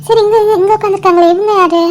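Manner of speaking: doting, playful quizzing of a little one; baby talk. Acted. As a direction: prompt a baby to name who is there. Asking a baby to name people.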